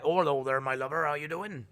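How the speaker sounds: mock rural Norfolk farmer; folksy Norfolk farmer greeting; old farmer's accent. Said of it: "like, really old farmers".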